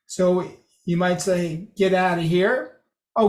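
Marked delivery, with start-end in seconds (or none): 1.8-2.7 here lifted in a rising tune; joking disbelief. Shown as a demonstration. Lecturer showing modulation, joking rise on here. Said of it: "Then there's voice pitch or modulation".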